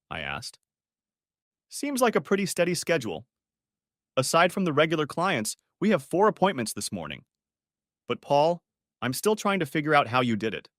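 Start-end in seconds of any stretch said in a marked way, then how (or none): 1.7-10.7 a higher, lightly voiced female coworker, curious; Rachel, coworker voice. Colleague Rachel teases Paul at work, lightly voiced.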